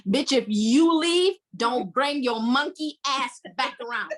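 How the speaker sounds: slow, loud threat on "leave", a put-on voice; acted angry ultimatum. Bryce on speakerphone threatens Tracy, loud and slow. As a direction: bark it at her like a fed-up man. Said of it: "That's what he said".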